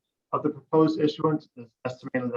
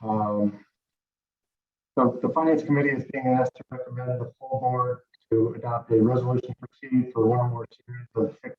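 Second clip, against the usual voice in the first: garbled, like talking in a fishbowl; muffled, warbling bad connection; underwater sound. Real, not acted. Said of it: "you sound like you're in a fishbowl".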